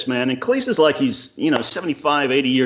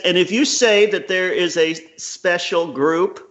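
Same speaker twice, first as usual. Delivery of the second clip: higher, slow, weighty quoting voice; slow, raised voice quoting Cleese to his friend; 6 semitones higher, slower than usual. Retold or imitated. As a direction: lay out Cleese's words slowly and gravely. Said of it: "and he, he said".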